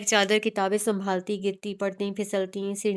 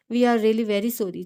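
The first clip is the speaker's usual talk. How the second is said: slow, drawn-out sorry; a slow, sheepish "We are really very sorry"; sheepish apology; 3 dB louder, slower than usual. Acted. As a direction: stretch each word out, embarrassed.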